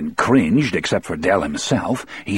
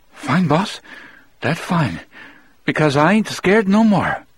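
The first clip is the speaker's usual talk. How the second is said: high Cajun voice, forced bravado; Cajun prisoner voice; 9 semitones higher than usual. Acted. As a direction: fake calm, voice high. Del feigns courage.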